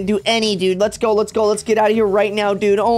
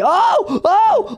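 scared horror game streamer. Real, not acted.

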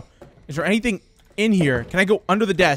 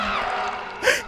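breathy high squeal of laughter; high panicked laugh; 5 dB quieter than usual. Real, not acted. Caught by the enemy.

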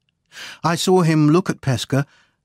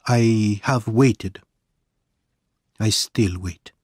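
lightly voiced Italian exile, halting and deliberate; grave storyteller with long pauses; a hint of a haunted man confessing; Pesca, confessing. Narrator voices Pesca telling his story.

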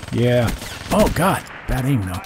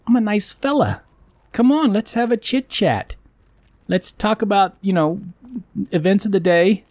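mock friendly; 5 semitones higher than usual. Mock nice-guy pleading with enemy.

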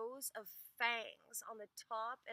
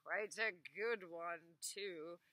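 calm; 2 semitones lower, slower than usual. Acted. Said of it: "said Ivan calmly".

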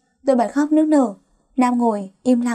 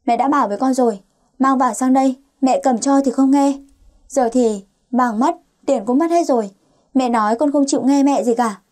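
a mother scolding her daughter, only lightly raised; mild scolding. Acted. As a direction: tell her off as if she never listens, understated. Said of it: "Mẹ tôi liền chửi tôi một trận". (mẹ mắng con gái, giọng hơi gắt nhẹ)

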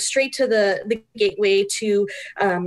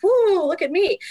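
mock self-admiration; 8 semitones higher than usual. Mocking her tired morning face.

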